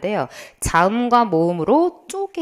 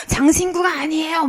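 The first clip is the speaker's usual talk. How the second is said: higher-pitched self-mimicry of nagging; mock teacher nagging; 4 semitones higher than usual. Teacher warning students she will keep repeating it, mock nagging. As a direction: exaggerate a teacher's repeated reminder. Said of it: "막 이럴 거".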